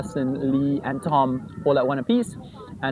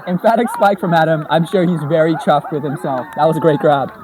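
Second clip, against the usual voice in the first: loud, thrilled call of the catch; excited play-by-play; 2 semitones higher, 6 dB louder than usual. Real, not acted. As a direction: call the grab with a rising thrill. Commentator calls a big catch.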